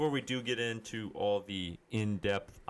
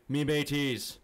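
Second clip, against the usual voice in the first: pirate voice; 4 semitones higher than usual. Acted. Host greets crew as pirate.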